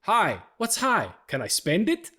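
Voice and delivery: high, slow, loud mock indignation; Mister Dickovich. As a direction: play a comically exasperated landlord. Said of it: "And he goes".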